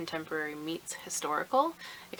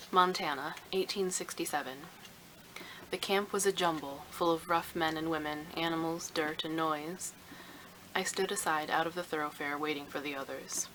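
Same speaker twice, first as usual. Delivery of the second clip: shouting upstairs. A narrator's reading. Mother calling her daughter down to the taxi, raised call. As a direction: call up to your daughter that the taxi has come. Reads the historical excerpt.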